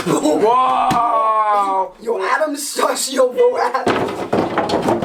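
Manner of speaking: loud, hyped shout; too loud indoors. Real, not acted. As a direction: yell it like a bro. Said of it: "Use your outside voice".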